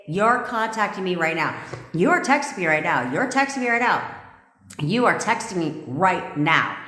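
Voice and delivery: commanding with spine. Shown as a demonstration. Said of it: "Say with some spine".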